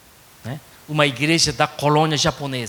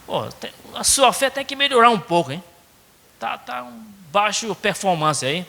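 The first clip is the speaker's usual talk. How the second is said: higher-pitched, casual, non-scolding nudge; lightly voiced Cearense Jesus; 5 semitones higher than usual. Jesus telling disciples their faith needs work, casual Cearense nudge.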